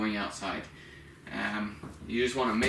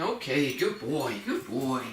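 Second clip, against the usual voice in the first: rewarding praise; 2 semitones higher, slower than usual. Shown as a demonstration. Trainer rewarding a dog at the bell, lively praise. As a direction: lively praise with rising and falling swoops. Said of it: "You're making it really rewarding".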